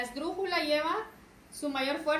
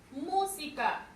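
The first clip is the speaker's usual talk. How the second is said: MÚ alargada en «Música»; acento en MÚ; slower than usual. Shown as a demonstration. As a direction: carga la voz en la primera sílaba de «Música». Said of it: "Su mayor fuerza de voz es mu". («Música» con MÚ bien marcada)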